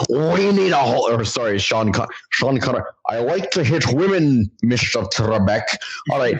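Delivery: a light mock Scottish accent, Sean Connery style; lightly put-on Scottish brogue for Sean Connery. Host lightly mimicking Sean Connery in a Scottish accent. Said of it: "So that's my Scottish accent".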